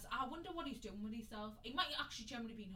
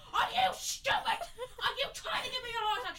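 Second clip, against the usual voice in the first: shrieking, very high and loud, breaking into laughs; imitating berserk mum; 12 dB louder than usual. Mum finds out it was a joke, furious laughing shriek. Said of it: "She went berserk".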